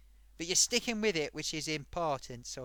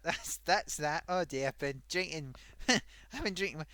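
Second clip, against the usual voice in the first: giggling as she admits it; laughing through words. Real, not acted. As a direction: laugh at your own bad luck. Laughing at drinking bugs.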